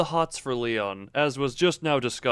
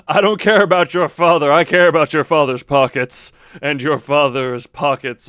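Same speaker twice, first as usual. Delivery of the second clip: mock passionate rant; 9 dB louder than usual. Joking rant about pockets.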